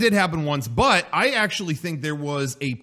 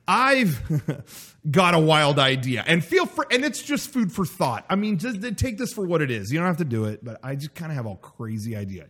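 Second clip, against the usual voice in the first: eager PR guy; 2 semitones higher than usual. Retold or imitated. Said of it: "he called me up and he said".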